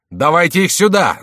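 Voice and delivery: high, loud roar. A narrator's reading. Favourite roaring demand for the Angevins. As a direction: roar for the enemy. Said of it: "заревел Мажерон".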